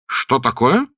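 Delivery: удивлённо, выше и громче; вскрикнуть от неожиданности; восклицание. A narrator's reading. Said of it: "воскликнул лорд Джулиан". (удивлённый возглас)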